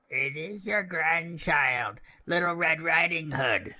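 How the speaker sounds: high, slow put-on girlish voice; a wolf trying to sound sweet; wolf's careful little-girl imitation; wolf faking a little girl. A narrator's reading. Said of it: "speaking like a little girl as well as he could".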